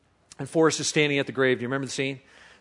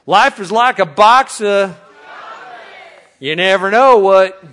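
slow fill-in prompt; 3 semitones higher, 6 dB louder, slower than usual. Shown as a demonstration. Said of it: "Extra points for using the accent".

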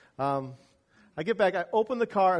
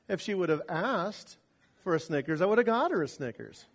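ordinary delivery

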